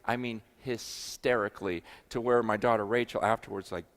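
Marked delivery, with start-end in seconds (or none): none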